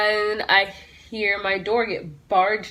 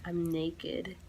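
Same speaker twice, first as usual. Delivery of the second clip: mumbled protest; 6 semitones lower, 16 dB quieter than usual. Retold or imitated. Protesting to the police.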